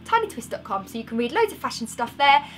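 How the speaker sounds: breathless, rushing through the plug; out of breath. Real, not acted. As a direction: talk while out of breath. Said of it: "I'm out of breath".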